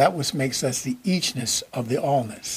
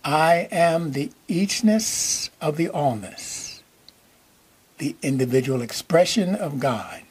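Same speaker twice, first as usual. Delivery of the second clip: slow, measured phrases with long pauses between; slowly for repeating. Shown as a demonstration. Preacher leading the congregation to repeat an affirmation, slowly. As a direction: say it slowly so others can repeat along. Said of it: "say that again slowly in case you wanna repeat it with me".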